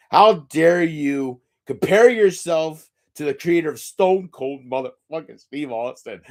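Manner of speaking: mock angry fan. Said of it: "somebody out there is saying".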